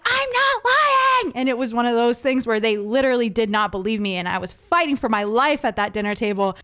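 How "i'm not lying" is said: high, drawn-out mock protest; retold teenage wail. Accused daughter protesting to her parents, mock wail. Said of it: "literally screaming at me".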